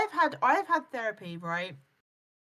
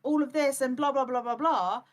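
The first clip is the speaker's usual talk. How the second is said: higher, whiny playing-the-victim voice; mock victim voice; 3 semitones higher than usual. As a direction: whine like a self-pitying liar. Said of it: "she's gonna lie".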